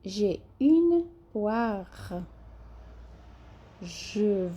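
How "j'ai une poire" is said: slow J'ai une poire with a rasped R in poire; slow teacher demo; slow model reading. Shown as a demonstration. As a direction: stretch it out slowly. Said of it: "como se fosse ra de rato".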